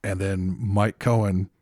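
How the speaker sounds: usual speaking voice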